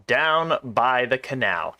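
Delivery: slow, settling down in pitch. Acted. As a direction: echo it slowly without the lift. Repeat of the same line.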